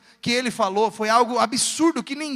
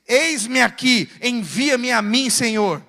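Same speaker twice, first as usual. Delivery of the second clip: slow, weighty proclamation; stretched-out prophetic response; solemn declaration; 5 dB louder, much slower than usual. Retold or imitated. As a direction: answer the call with deliberate, spaced words. Acts out Isaiah answering God.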